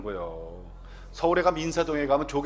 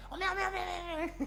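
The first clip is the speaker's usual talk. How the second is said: put-on high but softer 어메 with a laugh in a Jeolla accent; Jeolla 오메 exclamation; 8 dB quieter than usual. Preacher re-enacts the mother-in-law's delighted cry. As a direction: squeal 어메 like a surprised Jeolla mother. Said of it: "놀라거나 기쁠 때 입에서 나오는 감탄사가 오메".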